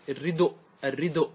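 الردء said ridu, the vowel moved before the hamza; pausal demo. Shown as a demonstration. Teacher modelling the pausal form, deliberately voiced. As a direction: pause on الردء with the damma shifted. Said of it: "تقول هذا في الوقف".

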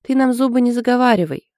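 mildly barked scolding; sudden bark. A narrator's reading. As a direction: cut her off sharply. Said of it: "вдруг рявкнула Анжелка".

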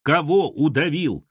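bewildered yell. Acted. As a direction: call it out aghast, stretching the words. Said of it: "заорал Хохлов".

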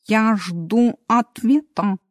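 slow, stern demand. Acted. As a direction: say it slowly and sternly. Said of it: "строго сказал Мартин". (строго)

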